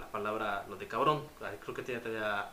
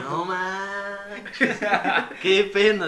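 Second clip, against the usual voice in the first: loud, higher cry of embarrassment; loud mortified laugh-cry; embarrassed outcry; 7 semitones higher, 11 dB louder, much slower than usual. Retold or imitated. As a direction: burst out, mortified and amused. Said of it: "Entonces, sí".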